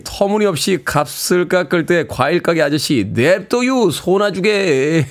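very slow drawl on the last words; 과일 가게 아저씨처럼 느긋하게; slow Chungcheong fruit seller. Retold or imitated. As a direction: fruit seller shrugging off a haggler. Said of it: "칠공이오 님".

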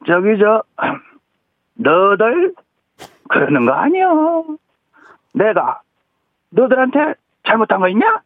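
hungry actor's grumpy late-night complaint; a hint of an old actor scolding; Park In-hwan impression. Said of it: "그때 하시는 말씀입니다".

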